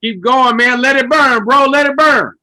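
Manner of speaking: loud, high-pitched egging on; hyped cheering on. Real, not acted. Co-host eggs on the mock preacher, hyped and loud. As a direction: cheer them on at full volume.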